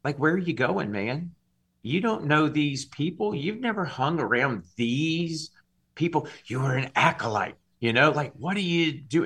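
needling voice on the shoulder, lightly voiced; mildly mocking, incredulous questioning; Satan. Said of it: "hear this voice sitting on my shoulder going".

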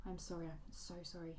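soft, hushed and pained apology; anguished whisper. Acted. Phoebe, ashamed, whispers her apology to Sylvester in anguish. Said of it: "she whispered in an anguished tone".

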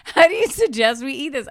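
fuller-voiced retold question; imitating husband asking. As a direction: deliver the catchphrase out to someone. Acts out Dan asking waiter.

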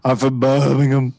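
loud put-on Brummie accent; exaggerated Brummie introduction; mock Birmingham accent. Mock British regional reply.

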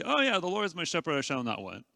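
quick, careless rattle-off; breezy, rushed, heart not in it; offhand recital. Shown as a demonstration. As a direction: toss it off without meaning it. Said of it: "We just sort of remotely say".

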